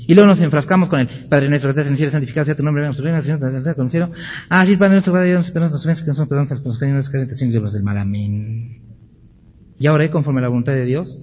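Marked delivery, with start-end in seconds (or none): 1.3-8.8 a bored recital that speeds up and fades out, gabbling the end; rote mumbled recitation. Retold or imitated. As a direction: rattle it off by rote, softer and softer. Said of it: "equivocadamente se usa para rezar la repetición".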